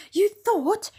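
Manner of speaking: high, loud mocking echo; scornful repeat. A narrator's reading. The ape mocks the bear's thinking, scornfully. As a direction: throw the word back with scorn. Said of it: "repeated the ape".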